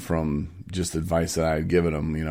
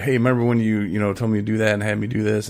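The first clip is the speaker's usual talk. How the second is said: excited; 4 semitones higher, faster than usual. Retold or imitated. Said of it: "he was all excited".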